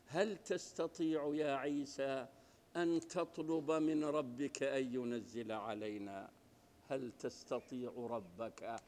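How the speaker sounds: soft, slow, coaxing request; gentle asking. Retold or imitated. Disciples gently coaxing Jesus to ask his Lord, soft and slow. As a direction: ask it tenderly, like a friend. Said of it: "يعني باللطف يكلمونه، بالأنس يطلبونه".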